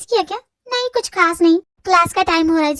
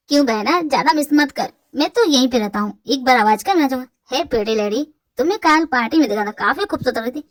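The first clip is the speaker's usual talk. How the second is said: cheeky brother voice; 6 semitones lower than usual. Acted. Younger brother teasing sister and flirting at party, low cocky voice. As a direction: lower male voice, cocky and flirty.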